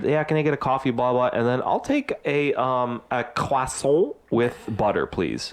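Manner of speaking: mock pretentious French on "croissant"; affected French accent. Mocking a drive-thru customer trying to sound fancy, pretentious French accent. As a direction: order it with a put-on French flourish. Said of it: "trying to sound, like, really".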